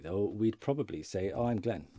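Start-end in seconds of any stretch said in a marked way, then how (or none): 1.3-1.9 informal. Shown as a demonstration. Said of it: "Informally in conversation daily".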